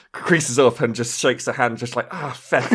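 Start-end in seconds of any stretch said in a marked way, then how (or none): 2.1-2.7 put-on light Irish-accented curse; a hint of Irish in the oath. Shaking a hurt hand after punching armor, lightly Irish-accented. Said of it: "this character is Irish".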